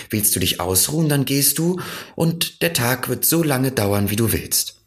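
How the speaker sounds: put-on high, bright-eyed child marvelling; a wondering little boy, lifted high; Little Prince voice. A narrator's reading. (kindlich staunende Stimme des kleinen Prinzen)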